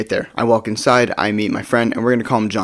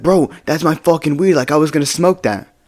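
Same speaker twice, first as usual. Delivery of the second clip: mildly aggrieved imitation, higher pitch; indignant protest; 5 semitones higher than usual. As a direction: imitate a friend arguing his case, pitched up. Friend argues about his stolen weed.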